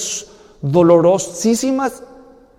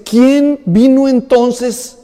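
high, loud, slow dawning alarm; alarmed father; 6 semitones higher, 6 dB louder than usual. Retold or imitated. Old father realising another son was blessed, high and alarmed. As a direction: realise you have been tricked. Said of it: "Le dice".

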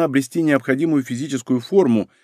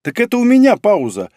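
higher, feisty comeback; indignant retort; 8 semitones higher, 4 dB louder than usual. A narrator's reading. Мизуки argues with him about her break, indignant. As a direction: push back, hands-on-hips attitude. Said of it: "упёрла она руки в бока".

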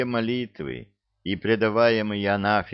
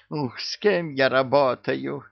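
mock lament; 6 semitones higher than usual. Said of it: "закручинился бесенок".

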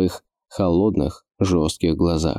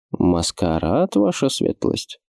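slow, startled, voice going husky; voice suddenly hoarse; slower than usual. Acted. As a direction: ask it with a voice gone suddenly husky. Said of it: "переспросил ключник моментально севшим голосом".

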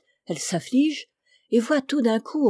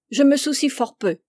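louder, higher, angry dwarf; 5 semitones higher, 5 dB louder than usual. A narrator's reading. Spurned dwarf answers the princess, angry. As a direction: snap it back, wounded pride. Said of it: "dit le nain en colère".

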